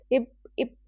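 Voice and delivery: "इप" with the opening sh dropped; "इप", starting straight on the vowel; ship without the sh. Shown as a demonstration. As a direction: say "इप" as a Spanish speaker's "ship", no sh. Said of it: "श बोलेंगे ही नहीं वो".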